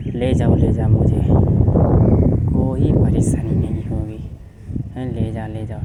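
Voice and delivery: loud gleeful cry; happily. Acted. Hema gladly tells the witch to take Vipin, loud and happy. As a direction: toss it off with cheerful glee. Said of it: "Hema खुशी से बोलती है".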